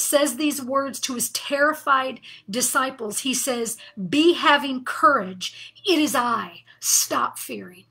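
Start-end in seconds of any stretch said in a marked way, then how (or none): 4.1-7.9 slow, firm and a bit louder, each phrase set down like a command; great authority. Retold or imitated. Jesus commanding his terrified disciples, with great authority. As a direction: speak as Jesus with calm command. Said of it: "he says that with great authority".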